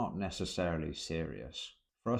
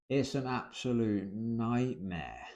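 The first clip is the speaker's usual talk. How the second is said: slow, drawn-out mock despair; mock exaggeration; 3 semitones higher, slower than usual. Shown as a demonstration. Teacher showing how to make a complaint funny, slowly exaggerated. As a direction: stretch it out for comic effect. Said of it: "is to exaggerate".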